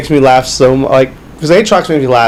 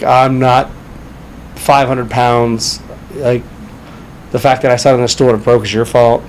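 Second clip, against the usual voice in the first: lightly voiced Southern belle; 3 semitones lower, 4 dB quieter than usual. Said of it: "Southern belle".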